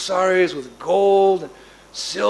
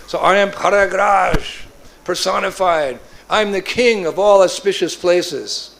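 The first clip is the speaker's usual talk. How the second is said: slow, louder, grand kingly announcement; regal proclamation; 3 semitones higher, 3 dB louder, slower than usual. Acted. Prayag declaring himself king to Nanda, grand proclamation. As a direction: announce yourself like a mighty king.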